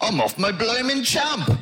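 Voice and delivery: put-on a light Black Country accent as Mister Marvel. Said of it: "how's your Iping accent".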